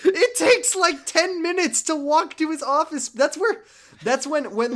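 high, loud, laughing disbelief; excited rant. Real, not acted. Laughing rant about Dojima.

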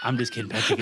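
high shouted call toward someone far off. Real, not acted. Shouting an apology to Patrick about BattleBots, a high call. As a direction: yell it so Patrick hears. Calling out to absent friend Patrick.

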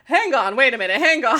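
a light, lively stand-up comic's stammering stop; hint of a nervous comic backpedalling; John Mulaney impression. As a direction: halt the robot mid-plea like a comedian. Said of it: "John Mulaney".

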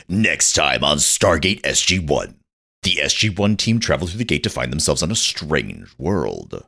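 mock announcer. Podcaster improvising a fake episode promo, mock announcer. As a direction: read it like a TV episode teaser.

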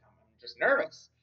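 high-pitched, stammering imitation of giddy nerves; weirdly giddy. Simon excusing himself to the goons, weirdly giddy. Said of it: "weirdly giddy".

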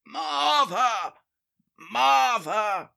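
put-on loud old man calling for Martha. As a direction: bellow for the wife down the hall. Old man calling wife from room.

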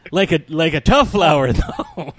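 disappointed line through laughter; laughing mock disappointment. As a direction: let the laugh break the complaint. Retold disappointed character.

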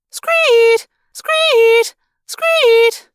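high, loud siren screech; piercing mechanical alarm wail; alarm shriek. A narrator's reading. Alarm screaming in the building.

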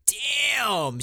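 high, loud startled outburst; surprised exclamation. Real, not acted. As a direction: blurt it out, caught off guard. Reacting to the blunt remark.

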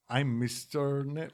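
put-on tentative British accent. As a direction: feel for a half-remembered British accent. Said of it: "I already forgot her accent".

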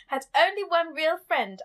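a touch of grand posh narration; posh woman. Acted. Host resuming the chapter quote, light mock-posh woman. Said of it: "reading it as a posh woman".

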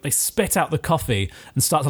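normal talking voice

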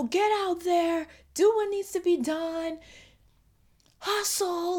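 high, drawn-out hustle pep talk; mock motivational coach. Speaker mimicking the hustle talk she rejects, mock motivational.

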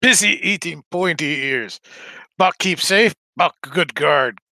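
terse, lumbering character voice; short blunt phrases, each set apart; gruffly lobbed-back message; in-character reply. Acted. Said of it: "message that Almas would get back".

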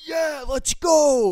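high, loud, stretched-out cheer; full-on victory yell. Retold or imitated. Gamer re-enacting his headset win, full-on victory yell. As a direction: bellow it like a gamer who just won. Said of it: "just literally let out a full-on".

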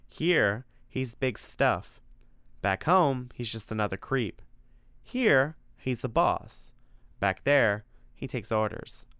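lightly voiced wry monster; monster, knowing. Freddy explains why Dracula stays here, wry and knowing. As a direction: punch each contrast like an insider.

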